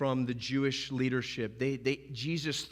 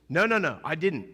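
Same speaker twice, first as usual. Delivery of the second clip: panicked denial; 3 semitones higher, 5 dB louder than usual. Retold or imitated. Peter denying in panic.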